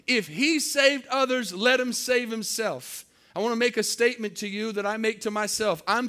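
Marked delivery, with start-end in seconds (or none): 0.1-3.1 slightly raised, slow mocking repeat; mocking taunt. Preacher repeating the crowd's taunt, milder mocking. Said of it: "They're mocking him".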